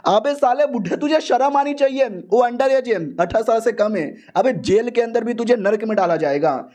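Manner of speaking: high-pitched mock scolding; hammed-up indignant telling-off; mock outrage. Disciple scolds his old master over the young leader, high mock outrage.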